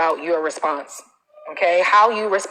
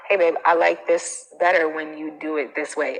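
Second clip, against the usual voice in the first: hint of a sexy voice; 3 semitones lower than usual. Shown as a demonstration. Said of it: "in a sexy voice".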